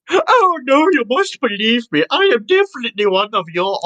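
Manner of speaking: high, crying plea; pleading voice. Pretend. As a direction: beg desperately for belief. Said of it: "what's your best pleading voice?".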